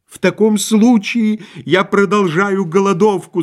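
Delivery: high, melodramatic proclamation; mock-tragic outcry; unhappy husband's cry. A narrator's reading. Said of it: "закричал несчастный муж".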